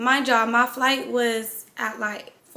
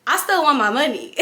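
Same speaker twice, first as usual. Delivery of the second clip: laughing; 3 semitones higher than usual. Real, not acted. Laughing about wanting her money.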